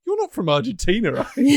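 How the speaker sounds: a hint of Maynard, rising; Maynard impression. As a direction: lightly voice the quizzical Maynard. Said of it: "one Maynard line".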